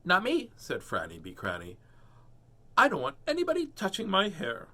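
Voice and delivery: high, loud, flat refusal; defiant child refusing; stubborn girl. Acted. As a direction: dig in your heels.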